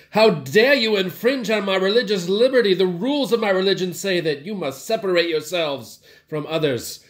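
hammed-up Southern preacher outrage, loud and high; a Southern zealot scolding the woman, mock indignant; mock southern accent. Jesus mock-scolding the woman, hammed-up southern accent. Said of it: "I did that with a southern accent".

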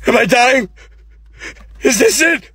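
high, loud frightened pleading; panicked. Acted. Dying man realizes his end, high and panicked. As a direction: panic as death arrives. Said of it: "you're like".

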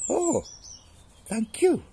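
very high, loud mouse gasp of thanks; relieved mouse. Acted. Spared mouse thanking lion, relieved squeak.

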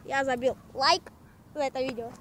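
yelling at the camera for likes; loud shout-out. Real, not acted. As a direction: hype vlogger shout. Shouting like requests to viewers.

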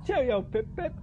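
jaunty put-on British sign-off; mock English accent. Uncle proving his accent is better, mock English. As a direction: toss it off in a pretend English accent. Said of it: "I got the better accent".

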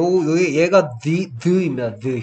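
'the' with tongue between teeth, voiced; slow 'the', buzzing th. Shown as a demonstration. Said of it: "혀를 물고 얘는 목소리를 떠는 소리". (혀를 물고 떠는 the 소리)

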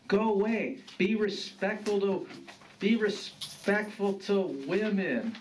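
refuse, then lay down the rule; stern grandfather. Acted.

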